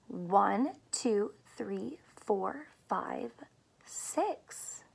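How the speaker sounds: counting in a soft whisper, fading out. Acted. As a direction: count quietly like a secret.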